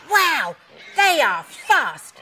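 loud, high, drawn-out exclamation; wide-eyed storybook amazement; amazed dog character. A narrator's reading. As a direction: marvel at it with big slow emphasis. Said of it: "barked Alfie".

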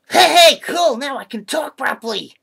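loud, high, laughing delight; gleeful whoop into high-pitched talk; delighted excitement. Acted. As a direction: burst out thrilled, with a laugh. Delighted at his new voice.

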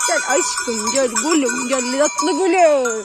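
slow, coaxing lover's call; shepherd coaxing the sheep with tender words. Shown as a demonstration. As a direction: sweet-talk the flock home. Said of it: "Şimdi örnek veriyorum".

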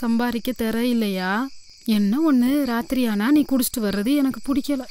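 softened tender. Acted. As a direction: gently soften the quarrel. Wife softens toward husband. (கணவனிடம் மனம் இளகி மென்மையாக பேசும் மனைவி)

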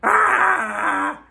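mock scared crying. Mock fearful breakdown at haters.

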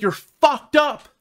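slow, high tearful accusation, lightly acted; mild retold crying. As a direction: drag the words out as if through tears.

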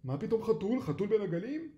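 loud, high disbelieving question; puzzled fishermen scoffing; incredulous. Acted. Fishermen doubt the cat's claim.

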